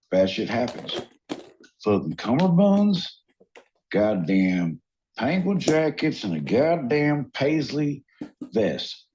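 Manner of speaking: lightly put-on Southern accent, climbing at the end. Friend showing how he code switches, Southern accent. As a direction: slip into a hammed-up Southern gripe. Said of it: "how do you not code switch?".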